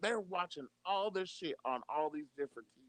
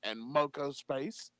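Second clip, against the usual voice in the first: a hushed, lightly voiced Trump sending his fans home; Donald Trump impression. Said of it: "It's amazing how much you sound and look like him".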